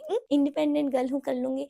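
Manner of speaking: cocky self-talk. Retold or imitated. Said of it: "नया नया जुनून था".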